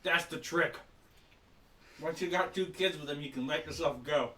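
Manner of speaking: talking through a mouthful of cheese; chewing while speaking; mouth full. Real, not acted. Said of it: "Sorry, I got a mouthful of extra cheese".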